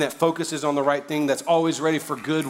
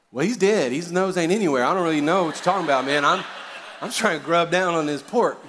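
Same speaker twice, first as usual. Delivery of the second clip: amused retort; 3 semitones higher, 3 dB louder than usual. Retold or imitated. Arguing back over barbecue.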